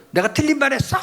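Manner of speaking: high, sharp indignant wife; mock an upset wife demanding an answer; wife snapping back mid-argument, voice way up. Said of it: "아내의 톤이 올라가면요".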